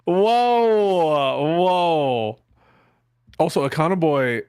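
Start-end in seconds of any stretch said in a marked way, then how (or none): 0.0-2.4 surprised whoa. Real, not acted. Reacting to a cheeky remark.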